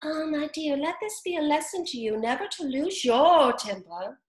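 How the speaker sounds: lightly voiced old crab lecturing; a hint of a preachy mother. A narrator's reading. Old crab lecturing her daughter, lightly voiced. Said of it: "saying to her daughter".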